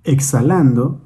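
measured meditation guide, long pauses between instructions; guided meditation. Acted. Guide leads listeners in breathing and imagining light, guided meditation. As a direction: guide the listener unhurriedly through breath and imagery.

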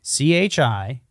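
"C H I" letter by letter, slowly; slow spelling. Shown as a demonstration. Spelling "C H I" for the co-host, slowly. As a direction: spell out "C H I" at a measured pace. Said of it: "I'll p-, spell it".

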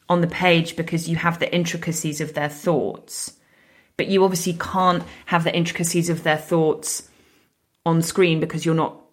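groggy morning-after voice; hungover. Real, not acted. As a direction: sound tired and hungover. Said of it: "I am sounding so hungover".

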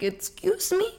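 taken aback and affronted; offended disbelief. Retold or imitated. Karen to the counselor, high and affronted.

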